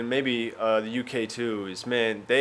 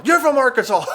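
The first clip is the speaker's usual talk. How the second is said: high, loud exclamation bursting into laughter; mock hilarity; 12 semitones higher, 6 dB louder than usual. Club owner finding Arkansas hilarious, loud mock guffaw. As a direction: imitate someone cracking up loudly. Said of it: "He thought it was the funniest thing".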